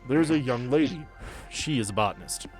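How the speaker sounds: ordinary delivery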